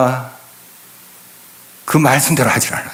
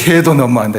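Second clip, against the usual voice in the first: exasperated outburst; 2 semitones higher than usual. Retold or imitated. Pastor voicing Moses's anger at the people, exasperated. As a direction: blurt it out like someone pushed too far. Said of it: "그런 심정이었던 것 같아요".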